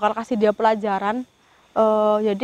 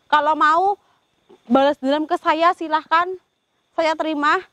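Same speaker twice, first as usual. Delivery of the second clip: stern warning; 4 semitones higher than usual. Real, not acted. Ghost hunter warns the spirit.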